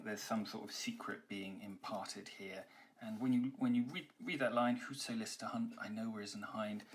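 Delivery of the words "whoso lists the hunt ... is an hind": softly, conspiratorial hush; whispery. Shown as a demonstration. Teacher reading the opening line to students, hushed and whispery. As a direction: lean in and share a secret quietly. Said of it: "it is actually quite whispery".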